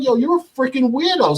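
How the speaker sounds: high-pitched mock outrage; re-enacted indignant insult; retold cursing out. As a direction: tell him off, pitch way up. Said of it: "I start cursing him out".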